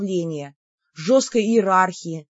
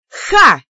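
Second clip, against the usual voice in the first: a sharp, high, loud "Ha!"; triumphant ha; 6 semitones higher, 10 dB louder than usual. A narrator's reading. Sister seizing on her brother's promise: a loud triumphant "Ha!". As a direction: bark out a victorious "Ha!".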